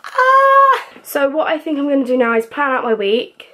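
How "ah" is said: sudden high-pitched "ah"; short burst of squealing. Real, not acted. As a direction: let out a long, high cry. Sudden cry alone in the room.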